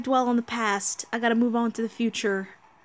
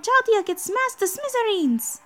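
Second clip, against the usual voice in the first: higher, louder urgent resolve; determined heroine; 9 semitones higher, 5 dB louder than usual. Acted. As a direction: push through with fierce determination. Voiced character in crisis.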